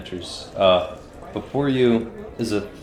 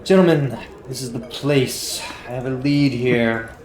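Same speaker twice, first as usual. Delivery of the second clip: lightly voiced in-game guide, opening on a raised call; Grodger impression; 2 semitones higher than usual. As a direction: address the party as their earnest informant. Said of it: "That was your Grodger impression".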